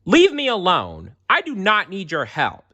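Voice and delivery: put-on high, loud furious boy; boy yelling at Jesus; angry yell. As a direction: shove the help away. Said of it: "Jerem yelled at Jesus".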